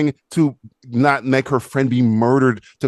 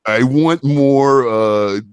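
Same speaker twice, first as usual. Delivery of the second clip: squeaky, much higher, hammed-up mock voice; silly studio exec; 8 semitones higher than usual. Mocking the studio exec asking for humor, high squeaky voice. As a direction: play the clueless exec demanding jokes. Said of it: "so they were like".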